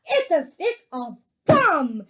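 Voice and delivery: loud, high, showman's boast; excited proclamation. A narrator's reading. Wonka boasts about his amazing gum, loud excited proclamation. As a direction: build it up and stretch the ending grandly. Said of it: "cried Mister Wonka".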